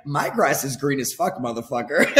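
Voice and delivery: bragging through real laughter; laughing brag. Real, not acted. Bragging to his friend about green grass, laughing. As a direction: crack up while boasting about the lawn.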